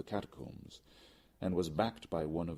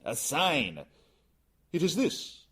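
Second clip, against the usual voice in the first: higher, louder exclaim; eager demand; 11 semitones higher, 9 dB louder, slower than usual. Acted. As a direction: push for the sign. Sign demanded, trowel shown.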